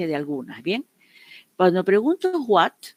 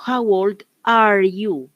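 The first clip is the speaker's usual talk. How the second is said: slow model phrase; 3 semitones higher, 6 dB louder, slower than usual. Shown as a demonstration. Teacher models English question.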